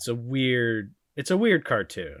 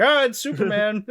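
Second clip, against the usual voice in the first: higher, louder, laughing through it; mock bystander, laughing; 10 semitones higher, 6 dB louder than usual. Mocking gullible crowd while laughing, higher fake gasp. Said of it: "they're just like".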